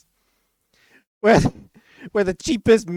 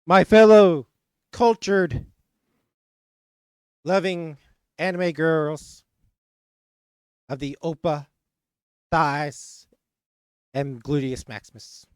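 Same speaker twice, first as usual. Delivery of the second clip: mock political speech. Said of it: "That has been my political speech".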